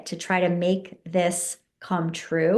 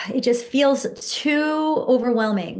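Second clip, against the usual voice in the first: mock weary; 4 semitones higher than usual. Shown as a demonstration. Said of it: "and then you're saying".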